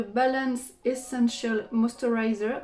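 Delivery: product name in a self-mocking English accent; French speaker proudly trying an English accent. Shown as a demonstration. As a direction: put on your best English accent for the brand name. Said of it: "avec mon super accent anglais".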